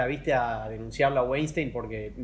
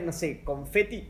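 a burp catching the words; slow words around a burp; burping after fizzy drink; 3 dB quieter, slower than usual. Real, not acted. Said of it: "perdón, eructo".

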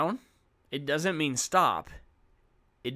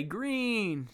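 put-on higher-pitched, bright child's reply; eager kid answer; 8 semitones higher than usual. Teacher imitates a pupil calling out, high eager answer. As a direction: answer like a keen student.

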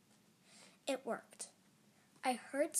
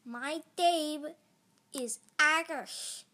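loud, higher, bunged-up monster; stuffed-nose voice; 4 semitones higher, 8 dB louder, slower than usual. A narrator's reading. Mucus monster introduces herself, stuffed-nose voice. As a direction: talk as if badly congested. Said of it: "she said through stuffed noses".

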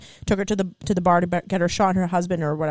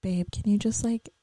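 gentle, intimate request; nice voice. Shown as a demonstration. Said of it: "in a nice voice".

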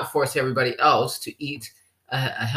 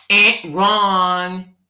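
game-show buzzer; 3 semitones higher, 5 dB louder than usual. Real, not acted. Buzzer-style rejection of option.

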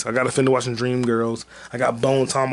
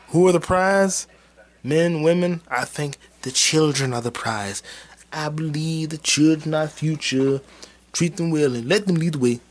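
lightly voiced Eddie Murphy; 3 semitones higher than usual. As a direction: deliver it like an earnest closing speech. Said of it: "That's Eddie Murphy from the end".

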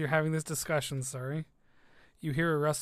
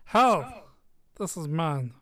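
dragon voice; 6 dB louder, slower than usual. Acted.

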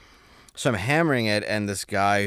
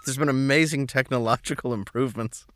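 raised pitch, loud comic haranguing; mock drive-through yell; 7 semitones higher, 4 dB louder than usual. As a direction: holler it at the drive-through speaker. Mock yelling into drive-through speaker.

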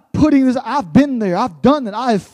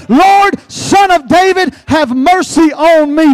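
crying out; 3 semitones higher, 3 dB louder, slower than usual. Retold or imitated. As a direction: beg aloud for mercy, slowing on the last words. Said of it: "crying out to the Lord".

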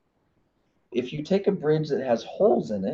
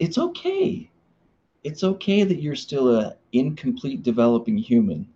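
sweet wife voice. Retold or imitated. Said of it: "She's like".

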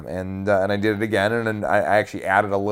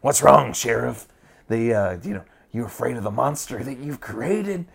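taunting the sheriff in a higher Southern accent; a mocking Southern cult leader, pitched up; 4 semitones higher than usual. Shown as a demonstration. Cult leader taunting the sheriff, higher-pitched Southern accent. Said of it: "made it a little more higher pitched".

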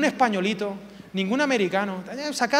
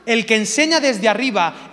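loud, slow, lordly pronouncement; teaching from above; 6 dB louder, slower than usual. Shown as a demonstration. Preacher showing the congregation a lofty teacher, loud and imposing.

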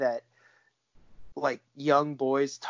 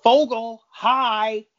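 higher-pitched, louder teacher's greeting; mock classroom greeting, pitched up; imitating a teacher; 7 semitones higher, 3 dB louder, much slower than usual. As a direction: call out a hello as the teacher. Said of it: "I love the teacher in the background".

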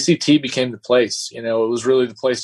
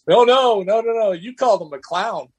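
urgent insistence; 9 semitones higher than usual. Retold or imitated. French guy warns him, retold.

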